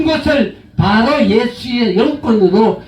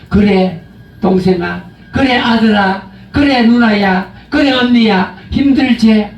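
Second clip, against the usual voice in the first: gentle consoling. Shown as a demonstration. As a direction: soothe them like family. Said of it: "그 감사함을 가지고".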